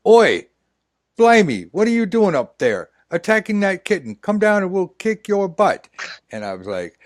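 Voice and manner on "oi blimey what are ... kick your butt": loud, high mock Cockney street thug. Street thugs taunting the kitten rescuer, hammed-up loud Cockney. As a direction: bark it like a hammed-up London hooligan. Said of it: "thugs were like".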